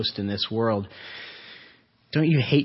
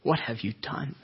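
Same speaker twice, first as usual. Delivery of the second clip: sorrowful question; 2 semitones higher, 5 dB quieter than usual. Acted. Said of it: "hurt and sorrow and pain in his voice".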